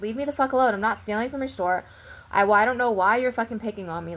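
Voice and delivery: to the guard who keeps following her, angry; retold angry outburst. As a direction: tell him off, raising the voice a bit. Telling off a harassing guard.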